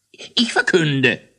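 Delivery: high, slow, loud announcement; eager call. Acted. Hollebautz answering the Großmogler's order, loud call. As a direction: call out the proclamation. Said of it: "rief Hollebautz".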